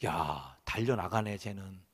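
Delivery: low, marvelling murmur; quiet admiration. Acted. God watching David run at the enemy, fondly impressed.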